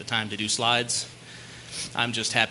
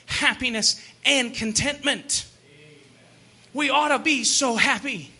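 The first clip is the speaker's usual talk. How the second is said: raised, punched sermon delivery; emphatic preaching; 8 semitones higher than usual. Acted. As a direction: drive each point home from the pulpit. Preaches to the congregation.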